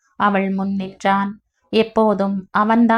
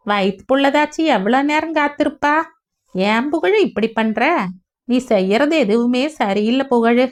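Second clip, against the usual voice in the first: scolding advice; 3 semitones higher than usual. Acted. Mother-in-law chides Pugazh for neglecting his pregnant wife, scolding. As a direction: chide him for coming home late. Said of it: "என அவர் அறிவுரை சொல்லவும்".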